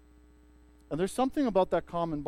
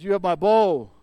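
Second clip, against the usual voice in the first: elf's pledge; 2 semitones higher, 10 dB louder than usual. Retold or imitated. Elf pledging his bow.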